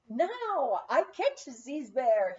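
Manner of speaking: put-on slow, determined French-accented announcement; suited-up French boy announcing he'll catch the bear, French accent; announced in French accent. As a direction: proclaim it like a French boy in his gear. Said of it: "he announced".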